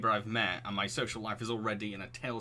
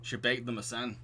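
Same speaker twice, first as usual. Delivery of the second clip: hesitant, wandering attempt at Yorkshire; unsteady put-on Yorkshire accent; slipping Yorkshire accent. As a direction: imitate Yorkshire, drifting towards Lancashire. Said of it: "I don't know why my accent's going".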